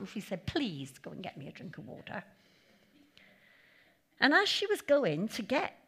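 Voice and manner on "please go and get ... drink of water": softer, politer please; polite request. Retold or imitated. Elijah asking the widow politely for water. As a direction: ask her nicely this time. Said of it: "much nicer than that".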